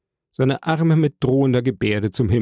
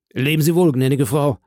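almost joyful farewell; 3 semitones higher than usual. Acted. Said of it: "fast freudig".

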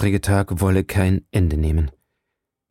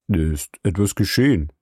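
startled. A narrator's reading. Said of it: "fragte er erschreckt".

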